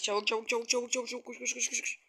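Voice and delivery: hushed urgent hurry; being chased. Real, not acted. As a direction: whisper it fast while fleeing.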